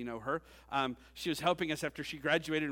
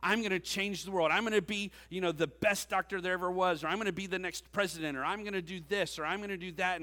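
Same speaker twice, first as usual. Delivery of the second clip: youthful ambition; 4 semitones higher than usual. Retold or imitated. Pastor voicing graduates' dreams to change the world, eager and high. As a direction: puff it up like a hopeful graduate. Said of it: "I mean".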